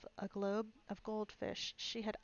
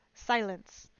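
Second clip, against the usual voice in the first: loud sudden cackling shout; cackled out; 9 dB louder than usual. A narrator's reading. King silencing the court, cackling shout. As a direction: bark it out from the notebook. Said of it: "cackled out".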